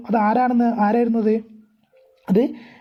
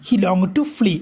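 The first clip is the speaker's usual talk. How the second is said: slow reading of the phrase; much slower than usual. Shown as a demonstration. Teacher rereading the line for the class, slow and drawn out. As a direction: stretch out "he longed to flee" word by word. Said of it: "longed എന്ന് പറഞ്ഞാൽ".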